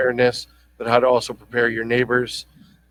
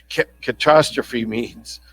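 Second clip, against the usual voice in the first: slow careful; slower than usual. Real, not acted. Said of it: "Say that ten times".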